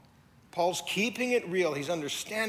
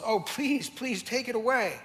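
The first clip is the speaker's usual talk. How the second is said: higher, louder desperate plea; pleading; 8 semitones higher, 5 dB louder, slower than usual. Retold or imitated. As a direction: beg God to take it away. Paul begging God.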